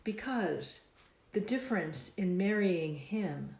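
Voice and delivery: measured, deliberate verse delivery; slow poem reading, words drawn out at line ends; poetry reading. Acted. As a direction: recite line by line, pausing after each. Reads own poem aloud.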